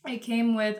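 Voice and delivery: talking around gum; chewing gum. Real, not acted. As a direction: speak with gum in the mouth. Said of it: "I do have a piece of gum in my mouth".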